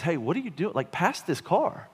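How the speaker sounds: high-pitched swoops of exasperation; imitated wife's exasperated prodding; impatient wife. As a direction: nag the driver in a mock wifely tone. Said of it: "she says that in a more sanctified way".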